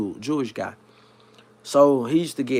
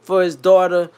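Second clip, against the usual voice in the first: put-on higher, rough Yiddish-Italian accent; 4 semitones higher, 3 dB louder than usual. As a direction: put on the boss's mixed Yiddish-Italian complaint. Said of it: "almost like mixed with Italian".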